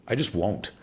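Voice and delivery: normal talking voice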